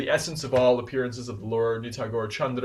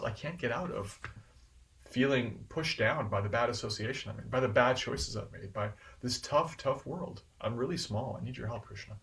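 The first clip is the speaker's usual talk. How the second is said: humble prayer; 5 dB quieter than usual. Retold or imitated. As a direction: confess smallness quietly to God. Voices a humble prayer to Krishna.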